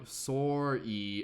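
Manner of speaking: sorry said with a Canadian accent; Canadian sorry, leaning into it. Shown as a demonstration. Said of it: "Is that how we say it?".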